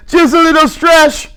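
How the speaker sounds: mild heated gripe; irritated grumbling. Acted. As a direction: grumble at Lenny about the walk. George griping, heated.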